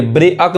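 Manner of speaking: ब्रे अक as two syllables, "bre-ak"; ब्रे अक misread letter by letter; wrong pronunciation. Shown as a demonstration. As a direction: split ब्रे अक, sounding both vowels. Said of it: "नहीं कहेंगे".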